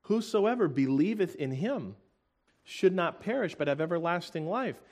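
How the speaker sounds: fervent scripture reading. Acted. Preacher proclaiming John 3:16 to congregation, fervent. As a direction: proclaim every word of the verse.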